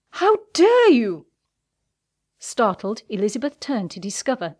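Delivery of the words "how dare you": loud, high, slow outraged shout; angry male voice. A narrator's reading. Colonel confronting the man he caught, angry shout. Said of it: "An angry male voice".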